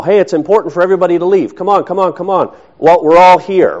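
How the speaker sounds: urgent rallying. Acted. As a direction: chivvy everyone along, acting it out. Acted leader rallying a group.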